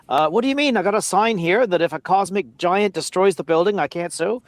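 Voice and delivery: put-on incredulous customer with a slight American accent; a hint of an American accent. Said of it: "did you just do an American accent".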